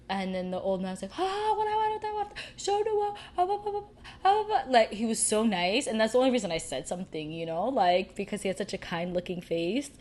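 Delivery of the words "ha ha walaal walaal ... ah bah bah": put-on much higher, cheery old-man voice with a chuckle; friendly old man. Imitating the kind old man greeting her at the border, high and cheery. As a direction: play the beaming old uncle welcoming her.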